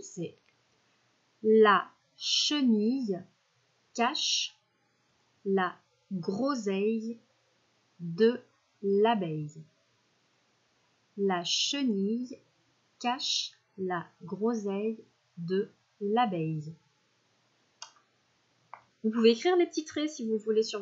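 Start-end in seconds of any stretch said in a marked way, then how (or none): 1.4-9.6 slow, word-by-word dictation. Shown as a demonstration. Teacher dictating a sentence to the class, slow. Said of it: "la phrase qu'on va écrire". 11.2-16.7 slow, smooth repeat of the sentence; dictation. Shown as a demonstration. Teacher repeating the sentence, slow. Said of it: "Je la répète".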